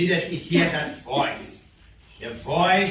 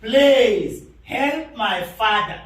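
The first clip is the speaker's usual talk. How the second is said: loud, drawn-out pleas, slightly raised; pleading child's cry; 3 semitones higher, 4 dB louder, much slower than usual. Retold or imitated. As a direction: plead slowly and forcefully for a child. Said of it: "This child is saying".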